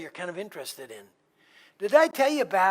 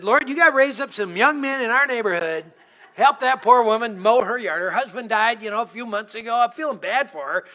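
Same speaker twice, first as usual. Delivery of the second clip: raised, pleading prayer to the Lord; heartfelt call for help, lifted up; earnest prayer; 4 semitones higher, 6 dB louder than usual. Retold or imitated. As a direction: plead with God out loud for the neighbor. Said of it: "So I said".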